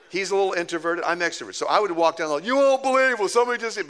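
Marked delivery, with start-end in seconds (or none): 2.4-3.9 high, loud eager announcement; bursting to tell the news; excited news. Retold or imitated. Pastor calling out down the hallway, high and eager.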